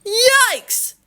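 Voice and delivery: high, drawn-out yelp of alarm; startled yell. A narrator's reading. Father turning round to see the cart, startled yell. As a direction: yell it high, in comic shock. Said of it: "turned around and yelled".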